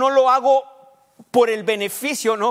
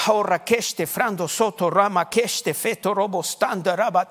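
praying in tongues; 2 semitones lower than usual. Real, not acted. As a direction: pray fluently in strange syllables. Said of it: "Es importante orar en lenguas".

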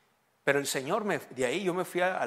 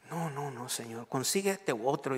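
tearful plea; 5 dB quieter, slower than usual. Retold or imitated. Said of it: "Yo estaba llorando".

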